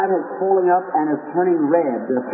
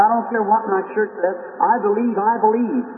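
put-on high, eager young girl's voice; 5 semitones higher than usual. Sick girl tells preacher she believes, eager and high. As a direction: pitch it up like a hopeful sick girl.

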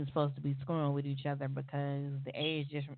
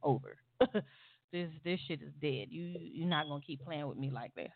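quiet final word; 7 dB quieter than usual. Retold or imitated. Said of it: "And I was like".

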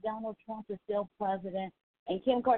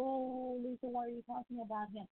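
mocking a critic; 3 semitones higher, 10 dB quieter than usual. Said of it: "I know some people".

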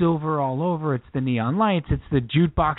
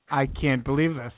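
mock indignation; 2 semitones lower than usual. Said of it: "The shock and indignation".

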